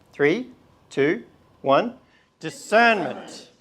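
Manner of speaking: loud group shout of the word; slow, loud shout. Shown as a demonstration. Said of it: "I want us all to shout".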